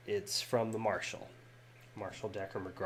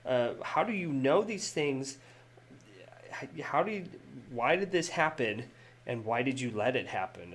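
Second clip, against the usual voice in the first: screaming at Sonny; 3 semitones higher than usual. Acted. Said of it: "she's screaming at Sonny".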